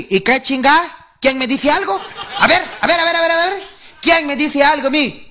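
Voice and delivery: blustering household tough guy; mock macho challenge. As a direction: play the boss of the house looking for trouble. Acting the bossy man storming home.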